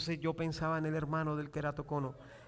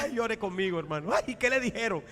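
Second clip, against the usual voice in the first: lightly wailed commiseration; hammed-up shared misery; mock lament. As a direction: play at crying along with a friend. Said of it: "abrazarnos los dos y llorar juntos".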